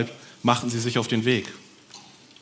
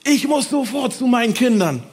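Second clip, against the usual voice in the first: high, loud eager cry; joyful shout; 12 semitones higher, 5 dB louder than usual. Acted. Healed man calls out he must see his children, joyful. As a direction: burst out with joy. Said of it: "rief einer".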